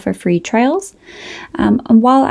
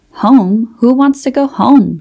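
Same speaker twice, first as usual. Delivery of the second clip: shouting; 4 semitones higher, 4 dB louder than usual. Acted. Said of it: "shouted Murad".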